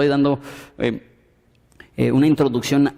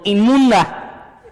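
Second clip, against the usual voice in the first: slow, drawn-out mock cry, breaking into a laugh; half-laughing call of unclean, stretched out; mock shout of unclean; 5 semitones higher, 4 dB louder, much slower than usual. Preacher imitating an unclean woman crying out in the street, laughing mock cry. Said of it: "tenía que caminar en la calle gritando".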